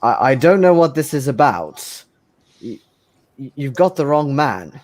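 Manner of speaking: lightly acted nervous stammer; nervous denial. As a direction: stammer out a rattled denial of knowing anything. GM voices cornered man's nervous denial.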